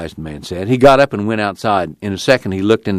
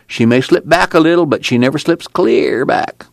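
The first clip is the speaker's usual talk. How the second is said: a lightly higher, tired preacher voice; weary preacher; 8 semitones higher than usual. Acted. Preacher telling Tom about a jailed union man, tired. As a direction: tell it like a weary old preacher. Casey continues.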